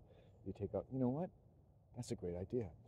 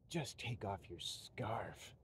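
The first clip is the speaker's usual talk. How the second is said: slow, breathless scornful brush-off; dismissive retort; much slower than usual. Retold or imitated. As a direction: toss it off like he's a weirdo. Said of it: "Kind of in the tone of voice like".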